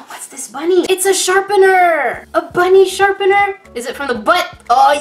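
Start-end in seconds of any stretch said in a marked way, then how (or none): 0.1-3.6 excited. Real, not acted. Gasp, delighted find of bunny.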